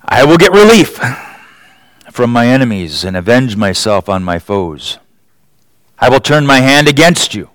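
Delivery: scripture reading. Acted. Reads scripture with weight.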